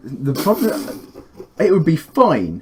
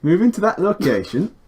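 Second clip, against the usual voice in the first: Moving to that location with a Yorkshire sound; Yorkshire-tinged read, higher; 6 semitones higher than usual. Real, not acted. Retake of the voice line, coming out Yorkshire. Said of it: "That's just Yorkshire".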